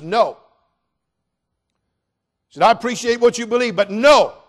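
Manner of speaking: high, loud, emphatic no; loud firm refusal. Acted. Dimitri turning down salvation, loudly. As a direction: slam the refusal down.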